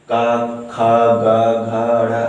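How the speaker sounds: का खा गा घा ड़ा said clearly, one by one, from the throat; demonstrated velar sounds. Shown as a demonstration. Teacher to students, demonstrating throat sounds clearly. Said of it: "अक्षर को पढ़ेंगे".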